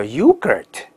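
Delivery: yoga mistakenly curled into yogurt; mock mistaken yogurt; wrong yogurt. Shown as a demonstration. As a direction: yogurt with an r on the end. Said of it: "很多同学说叫".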